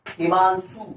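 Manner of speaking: हिमांशु with each syllable stretched; drawn-out answer. Shown as a demonstration. Teacher answering own question for students, drawn out. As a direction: say हिमांशु deliberately, part by part.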